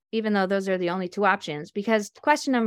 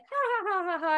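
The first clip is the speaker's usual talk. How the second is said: high forced chuckle; playful fake laughter; mock laugh; 10 semitones higher, 4 dB quieter than usual. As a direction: laugh it off lightly. Laughing off the prank.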